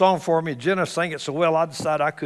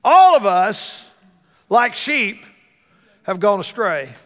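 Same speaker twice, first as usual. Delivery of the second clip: loud, slow mock Texan drawl, higher; Isaiah as a hammed-up Texan preacher; Texan accent; 5 semitones higher, 7 dB louder, slower than usual. Preacher voicing Isaiah as a Texan, mock Texan drawl. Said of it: "If Isaiah would have been a Texan".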